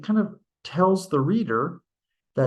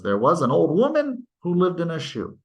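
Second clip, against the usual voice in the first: nursery rhyme reading; 4 semitones higher, faster than usual. Shown as a demonstration. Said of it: "whatever there was".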